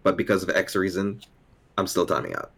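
plain, even explanation without sarcasm; serious. Acted. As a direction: say it straight, dropping the joke. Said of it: "then in a serious tone".

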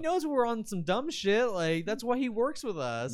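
loud, high excited shouting; hoarse victory roar. Real, not acted. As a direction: whoop it out like a win. Celebrating their long episode.

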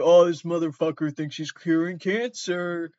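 imitating a scornful sceptic; put-on derisive disbelief; mock scoffing. Imagined scoffing public reaction, acted.

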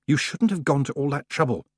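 ordinary delivery, nothing marked

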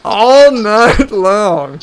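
put-on drawn-out slow weather girl line; slow mock forecast. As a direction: stretch it like a cheesy forecaster.

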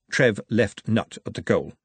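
ordinary delivery, nothing marked

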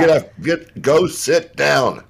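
loud, high yell at the dog; yelling across the room. Retold or imitated. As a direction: shout the dog back to its spot. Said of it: "the yelling downstairs in our kitchen".

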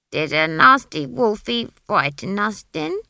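put-on loud sing-song baby talk to a child; coaxing baby talk. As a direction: coax her like a toddler. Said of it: "she hazarded".

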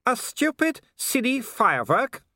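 very high, drawn-out villain cry; shouted scorn. A narrator's reading. Werewolf charging at the watchman's firework, shouting in scorn. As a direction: cry it out high, full of disbelief. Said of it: "shouted Wolfgang".

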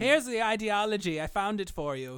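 loud, high announcement of a find; mock calling out. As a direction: call it out as if back from the stockroom. Villain bit, calling back from shop.

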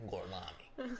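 understated, badly faked Italian accent; Brad Pitt. Undercover, answering when asked his name, mock Italian accent. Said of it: "he's acting like he's Italian".

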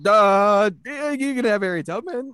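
mocking old white man. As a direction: caricature of an indifferent bigwig, lightly offhand. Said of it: "They're like".

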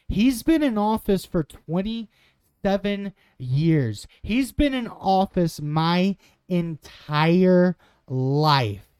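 loud, slow disbelief; indignant. Real, not acted. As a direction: hammer home the outrage, slowly. Outraged emphasis on long tenure.

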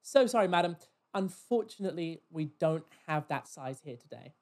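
mock-posh customer-service apology; lightly posh, falsely regretful shop voice; really posh. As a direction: put on posh, formal politeness. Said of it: "I went really posh".

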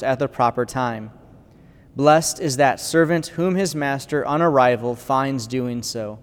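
solemn proclamation of Scripture; gospel reading. Acted. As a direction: read it like at the altar, measured.

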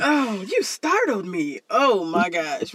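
slow, drawn-out prim mock startle; mock code-switching. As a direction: parody over-polite surprise, very slowly. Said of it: "he trying to tell us how he code switched".

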